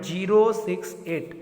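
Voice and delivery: "ज़ीरो सिक्स एट" as three separate digits. Shown as a demonstration. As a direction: read out "ज़ीरो", "सिक्स", "एट" one at a time. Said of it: "एक एक digit को पढ़ना है point के बाद". ("ज़ीरो सिक्स एट" एक-एक अंक अलग करके)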